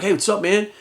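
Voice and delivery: a hint of an empty-headed bro greeting; mock dumb dude. A copycat meeting fans, lightly mocked as a clueless dude. Mocking a dull copycat in person.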